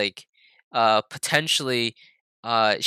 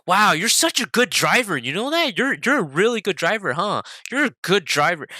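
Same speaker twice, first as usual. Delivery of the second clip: higher-pitched, sing-song mock admiration; sarcastic praise; 6 semitones higher than usual. Mom comes home to her son after the crash, sarcastic. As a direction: pile on the fake compliments, imitating a cross parent. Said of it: "Like, sarcastically".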